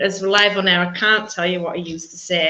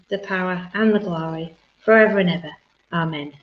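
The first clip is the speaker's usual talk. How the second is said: prayer. Acted. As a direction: recite it with devotion. Reciting the Lord's Prayer.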